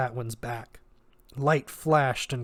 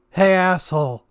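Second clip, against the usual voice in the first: loud, high taunting call; defiant shout at the enemy; strained taunt; 6 semitones higher, 10 dB louder than usual. Acted. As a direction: force it out through pain. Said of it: "Quentin managed".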